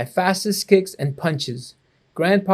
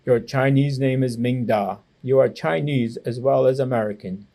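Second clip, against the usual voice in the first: firmly; 3 semitones lower than usual. Acted. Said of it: "he said firmly".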